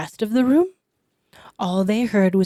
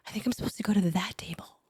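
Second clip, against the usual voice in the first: hushed thought; 5 dB quieter, faster than usual. Retold or imitated. Retold inner thought, hushed.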